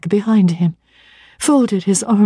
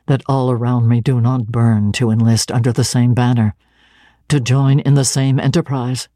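a touch lower, firm missionary zeal; lightly voiced stern minister; 6 semitones lower than usual. St. John lays out his calling to Jane, lightly lower and firm.

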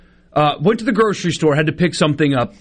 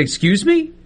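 incredulous excuse me; 10 semitones higher than usual. Retold or imitated. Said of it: "I say".

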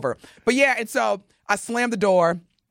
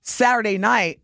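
"night" given deliberate emphasis; stress on night; 2 semitones higher than usual. Real, not acted. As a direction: lean on the word "night". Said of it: "emphasis on the word night".

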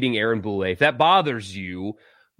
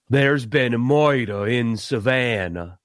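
Kevin Spacey Southern; 2 semitones lower, slower than usual. Retold or imitated. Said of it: "That's Kevin Spacey".

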